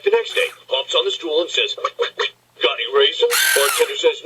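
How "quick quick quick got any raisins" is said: quacky, voiceless "quick, quick, quick"; joke duck. Acted. Duck asks bartender for raisins, quacking voice. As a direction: quack out the repeated word like a duck.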